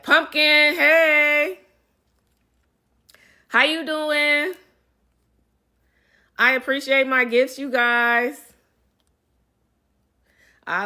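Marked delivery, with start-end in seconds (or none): 0.0-8.5 very high, loud, slow greeting; excited squeal. Real, not acted. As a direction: squeal hello to a friend. Greeting a fan by name.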